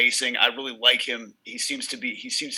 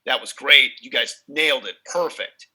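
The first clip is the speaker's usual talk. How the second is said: loud, cheery mock praise from the control room; upbeat studio praise; 6 dB louder than usual. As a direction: hype up the band like a cheerful producer. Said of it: "he's like".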